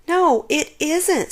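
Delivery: slow, firm, irritated retort; snapped. A narrator's reading. Shelley snapping back at the bird, slow and firm. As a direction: bite the words back at the bird. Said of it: "snapped Shelley".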